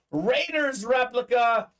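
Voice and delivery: drawn-out hyped name call; hyped announcement. Real, not acted. Host hyping a big pull to viewers, drawn-out shout. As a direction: stretch the name like a ring announcer.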